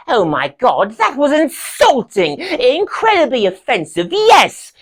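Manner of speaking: high, indignant outburst; offended outrage. Acted. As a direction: voice leaps up, affronted. Performer takes offence at the imitation.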